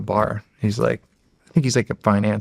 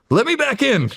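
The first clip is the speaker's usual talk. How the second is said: high-pitched demon impression, pleading to return; Danny DeVito. Demon Dart in front of me, Danny DeVito voice. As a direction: put on a high, comic little demon voice. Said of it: "he's got Danny DeVito's voice".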